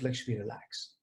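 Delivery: soft and low, Lakshmi, relax, settling down; quietly soothing yourself with your own name; calming self talk. Shown as a demonstration. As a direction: breathe it out gently, Lakshmi, relax. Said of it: "So I'm telling myself".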